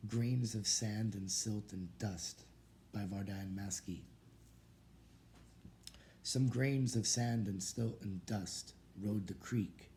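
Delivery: deliberate verse reading, line openings lifted, endings dropping; rhythmic poetry-reading cadence; poem recitation. Real, not acted. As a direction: recite the rhymes in measured, falling lines. Reads student's poem aloud.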